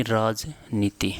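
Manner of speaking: राजनीति slowly, split as राज, नीति; slow dictation. Shown as a demonstration. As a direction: dictate राजनीति in two measured parts. Teacher dictates term in parts. (धीरे, टुकड़ों में लिखवाते हुए)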